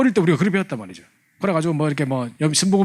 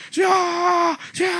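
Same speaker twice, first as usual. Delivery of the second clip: high shouted 주여, pitch jumping up; crying out to God; 14 semitones higher, much slower than usual. Retold or imitated. Worshippers told to shout Lord thrice, high shout. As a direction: call out to the Lord at full voice.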